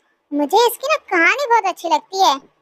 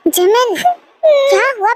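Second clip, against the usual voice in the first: worried; 3 semitones higher, much slower than usual. Acted. Husband comforts his crying wife.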